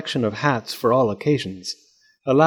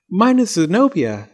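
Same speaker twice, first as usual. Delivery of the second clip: high-pitched little doll; doll's voice; 7 semitones higher, 3 dB louder than usual. A narrator's reading. Zenobia introduces herself from inside the egg, high doll voice.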